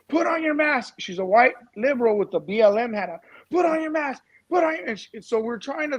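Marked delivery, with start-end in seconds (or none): 0.1-0.9 higher, mock yell at them; imitating a woman shrieking at them; retold scream. Angry protester yelling to put on your mask, mock yell. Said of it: "screaming at us". 3.5-4.9 higher, mock yell at them; imitating a woman shrieking at them; retold scream. Angry protester yelling to put on your mask, mock yell. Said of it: "screaming at us".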